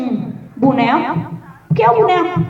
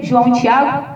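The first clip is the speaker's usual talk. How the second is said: ordinary talk, nothing marked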